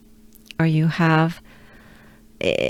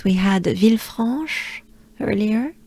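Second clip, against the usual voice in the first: whisper. Shown as a demonstration. Teacher recalls earlier stop name.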